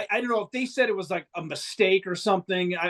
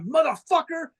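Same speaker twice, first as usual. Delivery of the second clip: high mock angry yell; imitating a furious shout out the bus window; retold yell; 6 semitones higher than usual. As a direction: bark threats at the driver. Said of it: "starts yelling at the guy".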